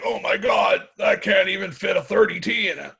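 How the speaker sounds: high-pitched mock exclamation; exasperated exclamation. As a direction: squeal it in mock disbelief. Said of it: "she'll be like".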